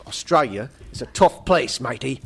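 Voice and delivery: lightly attempted Australian accent. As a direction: read it with a rough Australian accent. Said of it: "do my Australian accent".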